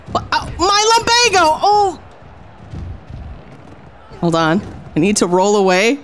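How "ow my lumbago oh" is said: higher, hammed-up elderly wail; old lady in pain. Sixty-nine-year-old wrestler hurt in the ring, hammed-up wail. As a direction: cry out like a creaky old woman hurt in the ring. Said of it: "My character is sixty-nine years old".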